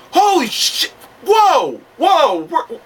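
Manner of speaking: high-pitched mock shock; imitated stunned crowd. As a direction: exclaim like fans caught off guard. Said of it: "catch the crowd off guard and just go".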